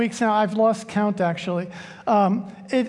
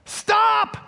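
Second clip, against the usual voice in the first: panicked yell; 11 semitones higher than usual. Retold or imitated. Pastor on a runaway horse yells in panic. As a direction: yell it like the horse is running away. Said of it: "yells the pastor".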